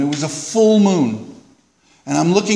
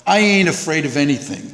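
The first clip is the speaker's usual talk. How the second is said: Popeye. Retold or imitated. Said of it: "I sound like Popeye the Sailor Man".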